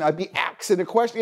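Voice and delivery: "axing" said as ak-sing; lazy "axing" for asking; mispronounced asking. Retold or imitated. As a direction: say "axing" with the k before the s. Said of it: "disregard of the pronunciation".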